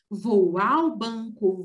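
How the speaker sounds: "ao" stressed and drawn out slowly. Shown as a demonstration. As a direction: lean slowly on "ao" in "Vou ao banco". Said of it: "a palavra a colocar aí". (devagar, enfatizando "ao")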